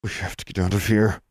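words pushed through clenched teeth. Acted. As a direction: jaw locked tight, tense. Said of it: "Larry said through clenched teeth".

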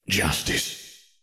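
unvoiced whisper to himself; inner thought. A narrator's reading. Sirius thinking to himself, whispered thought. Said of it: "thought Sirius".

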